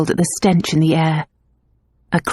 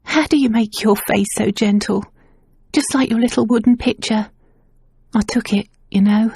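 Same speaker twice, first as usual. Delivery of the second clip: tearful, high voice; 4 semitones higher than usual. Acted. Crying maid confesses.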